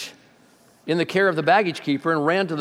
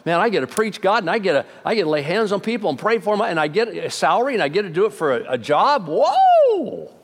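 put-on giddy young preacher; 4 semitones higher than usual. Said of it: "Kinda the same thing I did".

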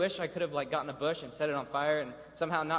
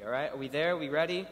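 ordinary talk, nothing marked

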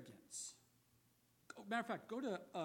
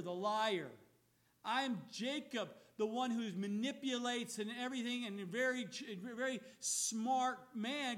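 raised voice, confessing every fault; loud self-accusation; 3 semitones higher, 4 dB louder than usual. Retold or imitated. Jacob confessing his nature to God, raised voice. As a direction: proclaim the shame loudly.

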